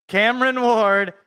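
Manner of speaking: a hint of a draft announcer, the name said cleanly; lightly done pick announcement. Shown as a demonstration. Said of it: "There, I just did your job".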